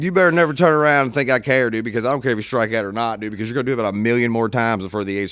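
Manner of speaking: put-on loud, brusque dad telling his kid off; retold dad's scolding, starting loud then easing; mock yelling at son. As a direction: raise your voice like a fed-up sports dad. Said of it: "when I'm yelling at him".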